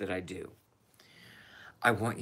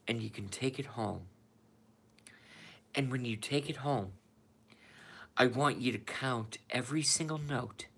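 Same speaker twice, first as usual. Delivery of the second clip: Donnie movie quote. Retold or imitated. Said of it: "This is from Donnie from The Wolf of Wall Street".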